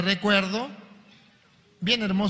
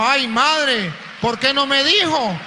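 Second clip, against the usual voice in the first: dismayed cry; 6 semitones higher, 4 dB louder, slower than usual. Acted. Novice's realization cry.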